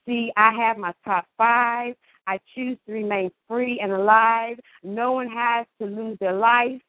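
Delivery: steady, emphatic slam-poetry cadence; measured stage recital with stretched key words; spoken word poem. Acted. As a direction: declare each line deliberately, pausing between them. Performs a spoken word piece.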